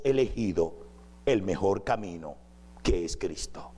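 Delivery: measured prayerful voice; closing prayer. Acted. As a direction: lead the church in prayer.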